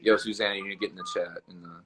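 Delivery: talking through the hiccups; breath catching with hiccups. Real, not acted. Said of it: "I literally got the hiccups right now".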